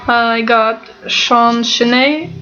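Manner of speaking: stuffed-up nose, can't breathe through it; blocked nose. Real, not acted. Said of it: "I just can't breathe through my nose".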